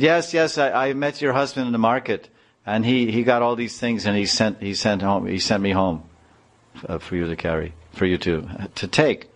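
a lightly voiced boy, keen to please; eager boy's voice. Boy telling the wife about her husband, eager.

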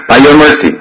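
credit the guru with mock devotion; deferential disciple. Disciple flattering his guru, mock piety. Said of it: "what he'll say like this".

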